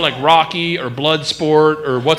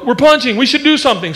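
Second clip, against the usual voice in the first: lightly voiced panicky feet; 6 semitones higher, faster than usual. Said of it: "My feet go".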